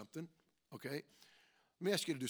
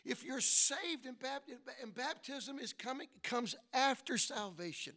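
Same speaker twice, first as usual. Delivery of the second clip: emphatic exhortation with stretched key words; forceful preaching; 7 semitones higher, slower than usual. Real, not acted. Preacher urging the saved to get baptized, emphatic preaching. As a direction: press each step home like a preacher.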